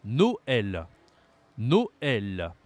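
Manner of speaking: "Noël" in two split syllables, open è; drawn-out demo of "Noël" with open eh; tréma like grave. Shown as a demonstration. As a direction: say "Noël" as no-EL, slowly and distinctly. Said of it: "Même prononciation que l'accent grave".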